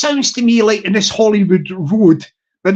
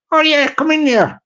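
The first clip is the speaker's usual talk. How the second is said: higher-pitched, lightly voiced council woman; a hint of a wee Irish official; 4 semitones higher than usual. Council woman calling a visitor into an appointment, lightly voiced wee woman. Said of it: "That's a wee woman".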